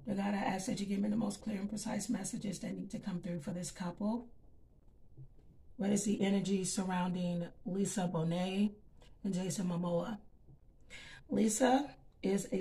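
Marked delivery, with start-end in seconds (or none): 0.1-10.2 soft, hushed prayer to God before the cards; quiet prayer. Acted. Reader asking God for clear messages, soft prayer. Prays over the tarot cards.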